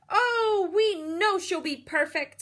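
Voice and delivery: loud, high gushing praise; confident fan. A narrator's reading. Man in the crowd gushing about Beatrice, excited. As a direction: gush with confidence. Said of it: "says a man".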